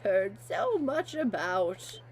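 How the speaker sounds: put-on old man voice. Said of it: "I can do an old man voice".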